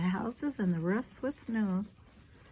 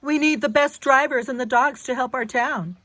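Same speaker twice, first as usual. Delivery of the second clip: mayor's radio appeal; 4 semitones higher, 11 dB louder, faster than usual. A narrator's reading.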